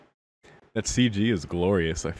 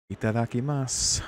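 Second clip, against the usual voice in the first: slightly menacing, raised-pitch itadakimasu; scary itadakimasu; 4 semitones higher than usual. Acted. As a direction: say grace with mock menace. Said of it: "that was the scariest itadakimasu".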